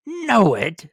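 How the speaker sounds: high, loud disbelief; can't believe his eyes; astonished. Acted. Scrooge recognizes the warehouse, astonished.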